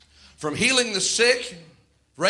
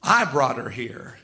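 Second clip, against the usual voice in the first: demon voice; 5 semitones lower than usual. Retold or imitated. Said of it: "She said".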